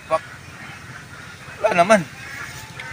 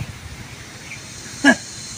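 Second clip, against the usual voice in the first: villain laugh; 5 dB quieter than usual. Acted. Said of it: "parang kontrabida yung tawa".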